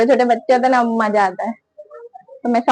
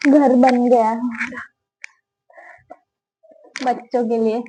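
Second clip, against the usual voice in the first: whisper. Real, not acted. Vlogger showing the kids' playhouse, whispering.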